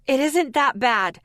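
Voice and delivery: high, loud yell. A narrator's reading. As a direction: yell it back. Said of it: "I kept yelling".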